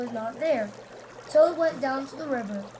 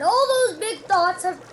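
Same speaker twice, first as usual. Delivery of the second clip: eager, raised voice; bursting with news; a lightly voiced excited toad; 5 semitones higher, 6 dB louder than usual. A narrator's reading. Toad excited about hat.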